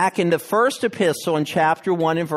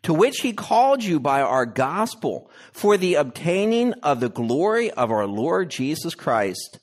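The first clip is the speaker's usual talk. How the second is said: measured, solemn reading of scripture. Acted. Preacher reads scripture to the church, solemn and measured. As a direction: read the passage to the congregation.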